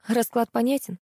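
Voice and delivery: plain reading voice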